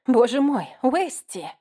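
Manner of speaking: shocked. Acted. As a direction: gasp at him in shock. Girl shocked at drunk friend.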